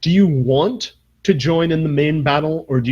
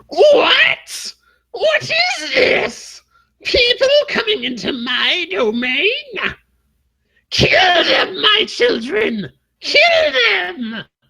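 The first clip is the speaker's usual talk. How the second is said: loud, very high, shrill, whiny, near-crying wail. As the party charges in, a telepathic creature commands its children: loud, whiny telepathic voice. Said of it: "a loud, whiny, telepathic voice".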